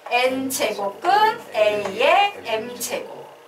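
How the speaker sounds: slow chant of "N제곱근 A의 M제곱"; choral drill reading. Shown as a demonstration. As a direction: say "N제곱근 A의 M제곱" in spaced chunks. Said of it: "뭐라고 읽을 거예요?".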